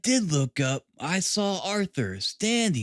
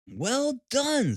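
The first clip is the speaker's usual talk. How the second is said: higher, praising pat on the back; encouraging; 8 semitones higher than usual. A narrator's reading. Holmes praising Gregson's theory, encouraging. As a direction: cheer him on gently. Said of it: "said Holmes in an encouraging voice".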